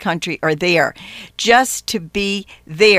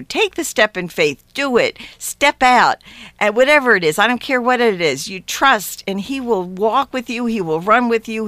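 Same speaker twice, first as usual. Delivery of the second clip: raised, earnest exhortation to step out in faith; gentle preaching. Acted. Urging radio listeners to trust Jesus, earnest light preaching. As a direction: urge the listeners on like a warm preacher.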